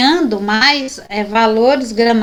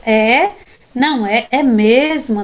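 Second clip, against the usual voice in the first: "É", "não é", "é mesmo", each given its own tune; vary the tune from "É" to "é mesmo"; changing intonation. Shown as a demonstration. Teacher shows students how intonation shifts, changing the tune on "é mesmo". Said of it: "a gente vai mudando a entonação".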